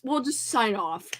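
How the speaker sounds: soft unvoiced aside; quick hushed aside; whisper. Real, not acted. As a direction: whisper the sign-off.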